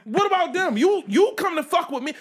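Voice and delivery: high, loud, laughing protest; laughing indignant retort. Retold or imitated. He imagines answering the bully, high and loud through laughter. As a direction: demand it through laughter, half outraged. Wishes he'd challenged the bully.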